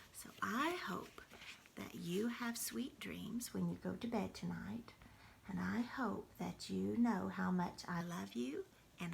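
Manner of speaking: hushed message to grandchildren; whispered goodbye. Real, not acted. Grandmother whispering goodnight to the grandchildren.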